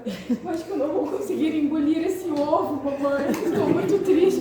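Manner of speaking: a hammed-up sad little girl; mock crying child. Mother retelling her crying daughter, mock whimper.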